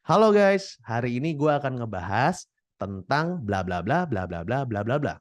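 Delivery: bright smiling vlog intro with lips open; smiling delivery. Shown as a demonstration. Creator showing how to greet viewers with a smile. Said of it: "ekspresi senyum dulu deh".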